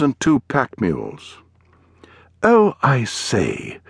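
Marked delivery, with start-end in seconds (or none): 2.4-3.8 put-on drawn-out, slow English gentleman's accent; an English toff's exclamation, stretched out. A narrator's reading. Suited man hailing strangers on the trail, in a strange English accent. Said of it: "spoke in a strange accent".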